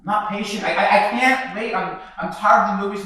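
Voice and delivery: impatient cry; impatient outburst. Acted. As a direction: burst out, can't hold still. Restless son bursting out.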